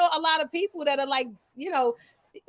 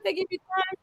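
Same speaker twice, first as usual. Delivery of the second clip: laughing disbelief; 4 semitones higher, 5 dB louder, faster than usual. Real, not acted.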